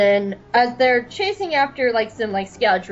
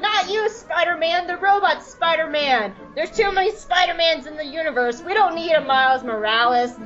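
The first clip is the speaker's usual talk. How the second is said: exasperated; 4 semitones higher than usual. Acted. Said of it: "he's like".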